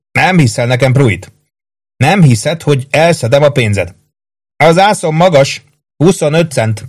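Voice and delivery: put-on a cocky young soldier needling his friend; cocky card player. A narrator's reading. Maggio boasting at cards. (magasabb hangon, kötekedő kártyás)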